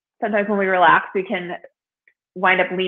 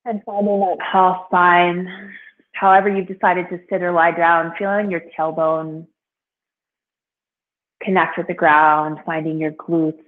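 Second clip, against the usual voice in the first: guided meditation. Real, not acted. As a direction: ease them gently into stillness, unhurried. Begins guiding seated meditation.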